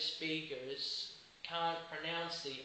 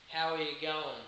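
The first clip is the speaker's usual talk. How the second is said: Australian accent. Shown as a demonstration. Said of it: "Let me repeat".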